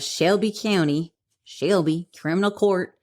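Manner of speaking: put-on playful stab at a Tennessee accent; attempted Tennessee accent. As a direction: try out an amateur Tennessee twang. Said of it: "my attempt at a Tennessee accent".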